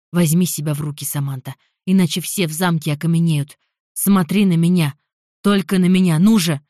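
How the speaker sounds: loud, insistent, building to the end; firm urgent command. Acted. Jeremy grips Samantha's shoulders and orders her to calm down, loud urgent command. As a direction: order her to look at you, harder each time.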